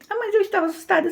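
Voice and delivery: a hint of a high, quick little girl; quick, high childlike protest; childish voice. Imitando criança assustada que ri. (um toque de voz aguda e rápida de criança)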